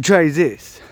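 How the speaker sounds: loud mock Bond villain accent. Wife ordering him to taste food, Bond villain accent. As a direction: badly fake an Eastern European villain's accent. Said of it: "she sounds like a Bond villain".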